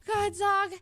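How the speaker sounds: high-pitched mock wail; retold tearful plea for the cat; imitated crying. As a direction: whine it as if starting to cry. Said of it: "I kinda started to cry".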